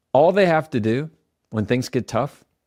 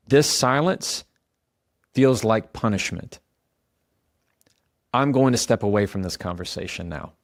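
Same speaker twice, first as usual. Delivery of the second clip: calm statement. Shown as a demonstration. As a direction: state it calmly and leave room after each phrase. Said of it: "It sounds like this".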